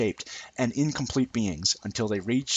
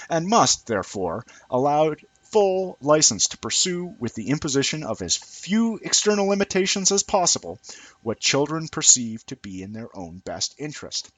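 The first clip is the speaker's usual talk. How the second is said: mocking female reasoning; 4 semitones higher than usual. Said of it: "goes the screw-loose approximation of female reasoning".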